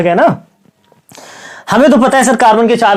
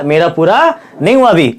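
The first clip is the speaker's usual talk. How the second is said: lightly voiced carbon, a hint of insisting; barely acted carbon holding on to hydrogen; carbon speaking; 2 semitones lower than usual. Carbon tells hydrogen not to leave, lightly voiced insistence. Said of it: "carbon बोलेगा".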